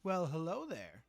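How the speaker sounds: slow, loud, sing-song hello; cutesy greeting. Real, not acted. Streamer greeting a viewer's cat, slow and cooing. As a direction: coo a big hello at the cat.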